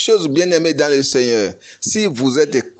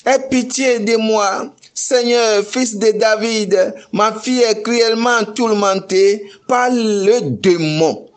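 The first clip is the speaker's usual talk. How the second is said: crying out; 6 semitones higher than usual. Retold or imitated. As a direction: beg the Lord at full voice. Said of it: "lui cria". (supplication criée, aiguë et plus forte)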